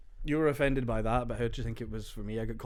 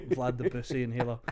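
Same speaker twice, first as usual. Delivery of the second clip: laughing through it. Real, not acted. Laughs during joke.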